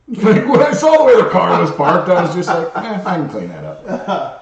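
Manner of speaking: laughing. Real, not acted. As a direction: tell it while cracking up. Laughs recalling the badly parked car.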